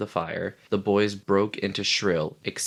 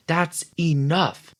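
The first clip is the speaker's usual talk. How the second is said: high, slow and louder sharp order; 9 semitones higher, 4 dB louder, slower than usual. Acted. Ralph cuts off Piggy sharply, high and slow. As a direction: cut him off hard. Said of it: "said Ralph sharply".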